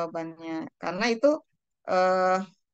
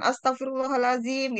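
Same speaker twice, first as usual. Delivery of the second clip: higher-pitched mock-angry exclamation; angry intonation; 4 semitones higher than usual. Shown as a demonstration. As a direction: exclaim it as if cross, pitch lifted. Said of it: "kalau misalnya lagi marah kan". (intonasi marah, nada lebih tinggi)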